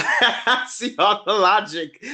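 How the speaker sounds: slow words broken by laughter; laughing through it. Real, not acted. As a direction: talk while still cracking up.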